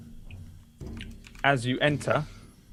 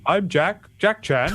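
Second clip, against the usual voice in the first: higher, stammering seal voice; Jack the seal; 5 semitones higher, 4 dB louder, slower than usual. Acted. Seal introduces himself without really looking, stammering and high. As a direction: introduce yourself haltingly, pitched up. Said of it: "seal kind of cocks his head".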